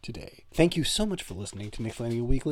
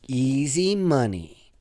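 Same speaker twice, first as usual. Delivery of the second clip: quoting a movie line; slower than usual. Retold or imitated. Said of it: "He says that also".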